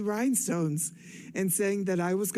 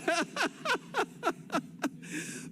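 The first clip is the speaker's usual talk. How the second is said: soft laugh; 13 semitones higher, 6 dB quieter than usual. Real, not acted. Audience banter about California.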